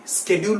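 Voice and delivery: "शेड्यूल" with a sk start; professional schedule. Shown as a demonstration. Teacher advises the professional form, sk onset. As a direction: say SKED-yool for "शेड्यूल". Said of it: "Professionally शेड्यूल बोलिए".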